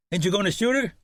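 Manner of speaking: lightly voiced gunman taunting; hint of a rough horseman. Horseman goading Shannon to shoot the woman, mock sneer.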